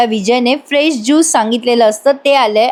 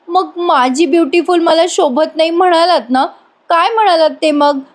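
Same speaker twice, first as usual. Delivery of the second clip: higher-pitched wounded wife; imitating an aggrieved wife; hurt reproach; 6 semitones higher than usual. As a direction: demand an answer, sulkily. Acts hurt wife confronting husband.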